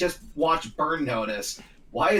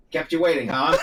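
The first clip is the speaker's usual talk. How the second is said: deep smoky manly voice; 5 dB louder than usual. Acted. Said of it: "Deep, smoky, or manly voice said".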